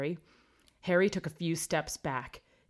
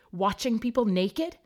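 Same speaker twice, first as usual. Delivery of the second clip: scornful; 6 semitones higher, 6 dB louder than usual. A narrator's reading. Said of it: "Hermione didn't look moved".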